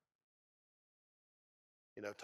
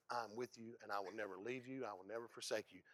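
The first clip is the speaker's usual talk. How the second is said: reassuring; 3 semitones lower, 6 dB quieter than usual. Acted. God's reassuring answer.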